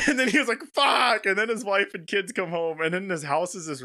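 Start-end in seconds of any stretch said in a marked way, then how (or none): 0.7-1.2 high imitated yell of frustration; hammed-up cry of dismay; mock yell. Buried man after accidentally sending it, mock yell. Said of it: "wasn't he just yelling".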